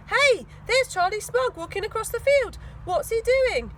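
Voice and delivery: high, loud excited call. Acted. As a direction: point him out eagerly. Tina spots Charlie.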